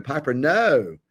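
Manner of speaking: put-on "no" drawn out with an old-fashioned English O diphthong; mock Parker Posey O. Lightly voicing Parker Posey's English-sounding "no". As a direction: lightly imitate the Durham O sound in "no". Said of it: "That O sound is very English".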